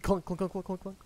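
quick run of clunks; imitated clunking. Game master voicing a stone thrown on the ground, clunking. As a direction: make the clatter of a stone bouncing.

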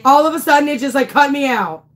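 high, loud, flustered outburst; real startled alarm. Real, not acted. Streamer complaining she got cut out, startled alarm. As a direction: exclaim in disbelief after a scare. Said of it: "that was like a heart attack".

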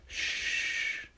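soft bedtime whisper, almost no voice. Acted. Reader whispering goodnight to Crane Truck at bedtime, whispered. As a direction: hush it like a child is asleep.

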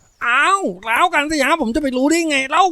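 put-on high, rattled kid explaining; high-pitched innocent protest; protesting little boy. A narrator's reading. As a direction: blame big sister in a boyish whine. Accused boy protests his innocence.

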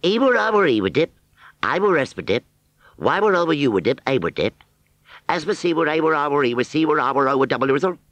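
high, sing-song gibberish, quickening at the end; Wurzelese. Acted. Wurzel trying to talk to the scarecrow, Wurzelese gibberish. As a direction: babble the scarecrow's secret tongue. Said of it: "this time in Wurzelese".

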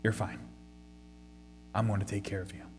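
tender reassurance. Acted. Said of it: "hearty father laugh, he says".

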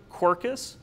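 Quercus said slowly as KWER-kus, first syllable stressed; slow sounded-out word. Shown as a demonstration. Teacher slowly sounding out Quercus for the class, stressing the first syllable. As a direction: draw out Quercus, leaning on KWER. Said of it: "we have a two-syllable word".

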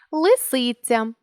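Лисиця said slowly as three separate syllables; split into syllables. Shown as a demonstration. Teacher showing students the open syllables in Лисиця, slow syllable split. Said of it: "слово, у якому всі склади відкриті".

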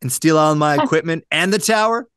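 a put-on Southern accent, lightly done. Host voicing the radio general manager in a Southern accent. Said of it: "I gotta do my best Southern voice".

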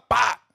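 sharp spoken slap sound; mock a telenovela slap; imitated slap. Preacher mimics a telenovela slap for the congregation, mock slap sound. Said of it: "mira, dándole una bofetada".

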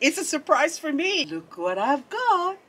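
high-pitched, giddy squeal building to a whoop; real excitement. Real, not acted. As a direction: draw out "excited" high and gleeful. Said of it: "I'm so excited".

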